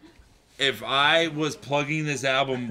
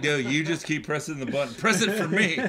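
pleading voice; 3 semitones higher than usual. Acted. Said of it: "It's like".

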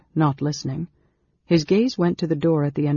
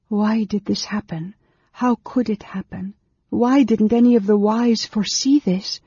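high, agitated questions building louder; feverish; 7 semitones higher, 4 dB louder than usual. A narrator's reading. Woman pacing the small chamber repeats her questions, feverishly. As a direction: repeat it feverishly, pitched well up. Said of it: "Over and over again she repeated these words".

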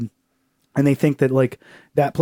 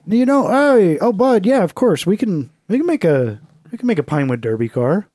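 higher, bright encouraging dad voice; cheery dad; 4 semitones higher than usual. Retold or imitated. Dad encouraging his kid about a Pinewood Derby car. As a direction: hype up your kid like a doting father. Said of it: "my dad persona".

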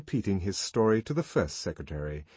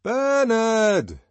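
very high, loud call; 14 semitones higher, 8 dB louder than usual. A narrator's reading. The young man calling for Bernard at the rest house. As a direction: call for him across the distance. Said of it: "he called".

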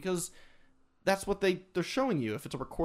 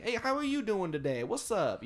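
bright, higher hype-up hello; upbeat streamer greeting; 5 semitones higher than usual. Shown as a demonstration. Streamer welcoming his viewers, upbeat and excited. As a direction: greet chat like you're thrilled they came. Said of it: "happy-go-lucky and excited and be like".

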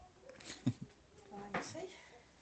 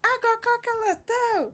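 higher, louder beach vendor cry; Rio vendor call; 7 semitones higher, 13 dB louder than usual. Retold or imitated. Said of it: "sotaque de carioca".

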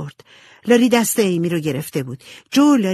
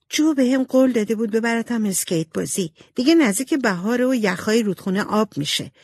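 put-on higher-pitched complaining girl; aggrieved little sister; 4 semitones higher than usual.

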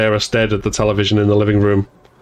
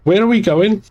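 put-on high, small, uneasy child's question; tiny scared voice; 10 semitones higher than usual. A narrator's reading. Becky asking her brother where they're going, small and scared. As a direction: ask like an anxious little sister. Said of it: "in a tiny, scared voice".

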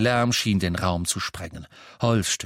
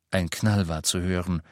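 plain reading voice

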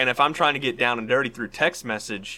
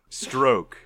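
mock Dickens; much slower than usual. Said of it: "Charles Dickens being like".

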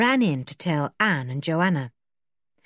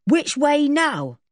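called out; 9 semitones higher, 4 dB louder, slower than usual. A narrator's reading. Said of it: "He called out".

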